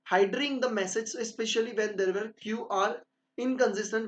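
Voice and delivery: slow, deliberate dictation of a definition; slow textbook reading. Acted. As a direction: read it out as if dictating notes. Reads definition slowly. (धीरे-धीरे notes लिखवाते हुए)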